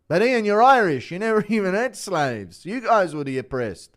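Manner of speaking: high, loud scolding shout at a lost friend; Vulcan JDM impression. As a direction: snap him out of it, way up and loud. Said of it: "Impression of Vulcan J D M".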